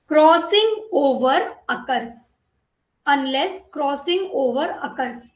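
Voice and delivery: very slow dictation, word by word. Acted. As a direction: spell out each word so pupils can write it down. Teacher dictates a point slowly.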